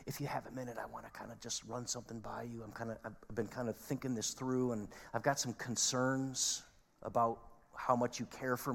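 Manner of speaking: soft, hesitant, casual ask; mock-polite request. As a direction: tiptoe politely round the complaint, very softly. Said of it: "they're probably not saying".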